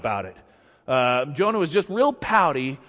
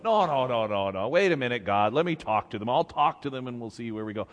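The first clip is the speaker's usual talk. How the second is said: softer, lower, talking God down; placating Moses; 5 semitones lower, 4 dB quieter, faster than usual. Retold or imitated. Moses talking God out of smiting, gentle placating. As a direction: soothe and bargain gently. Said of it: "Moses is going".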